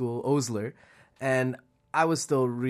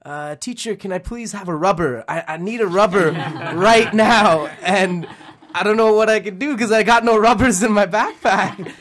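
put-on panicky kid voice; 6 semitones higher, 9 dB louder than usual. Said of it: "I go up to her, and I'm like".

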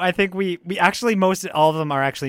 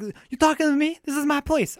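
De Niro impression; 9 semitones higher than usual. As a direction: stake your turf, touchy and proud. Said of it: "I'll do Robert De Niro".

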